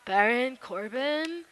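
drawn-out name announcement in imitation; Beige impression. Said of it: "I'll say it like Beige does".

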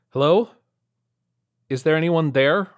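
loud, high calling out. Acted. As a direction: call out into the empty room. Calling out in empty warehouse.

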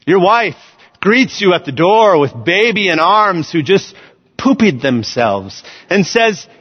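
ordinary talk, nothing marked

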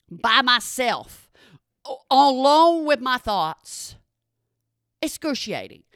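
slow, heavy emphasis; slow dramatic drag. Real, not acted. Dramatic slowdown.

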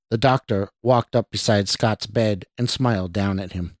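measured audiobook narrator; even-paced storytelling; story narration. A narrator's reading. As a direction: read it as a suspense tale.

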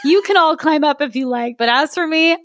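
put-on a cautious boy refusing firmly; wary boy. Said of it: "said Marin".

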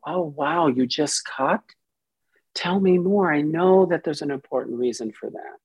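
calm, open and curious; loving, curious. Shown as a demonstration. A therapist meeting a client's cutting with calm curiosity. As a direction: receive the news gently, no alarm. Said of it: "my loving, curious space".

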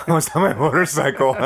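high, loud, cracking up mid-quote; laughing through it. Retold or imitated. Son confessing the crash to his dad, retold laughing. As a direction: let the laugh take over the words.

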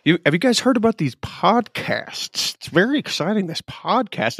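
mock excitement; mock excited. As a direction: fake gushing enthusiasm. Mocking newcomers' excitement.

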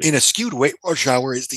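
talking while starting to choke; words strained by something caught in the throat; choking on something. Real, not acted. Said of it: "excuse me, I'm choking on something".

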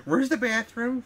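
put-on high, drawn-out little girl voice; mocking high-pitched child. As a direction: mimic a kid asking, slow and high. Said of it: "Little girl's like".

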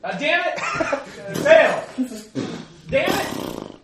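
horse impression. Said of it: "here's my horse impression".

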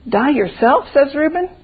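put-on lively colloquial old-time storyteller; folk tale storytelling. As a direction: read a homespun country tale aloud with lilting emphasis. Reads folk tale aloud in dialect.

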